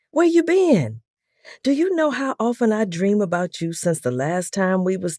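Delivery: high, eager and loud; loud, fast man. A narrator's reading. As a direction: rush it out, overjoyed. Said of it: "He was talking so loud and fast".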